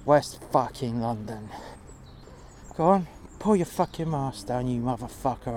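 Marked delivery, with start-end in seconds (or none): 2.8-5.5 angry demand. Retold or imitated. Retold demand, confrontation.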